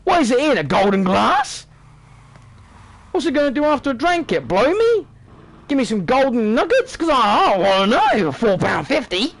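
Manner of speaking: mock outrage at a pricey pint; scoffing disbelief, building up; incredulous at the price. Complaining about nightclub pint prices, mock outrage. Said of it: "I'm like".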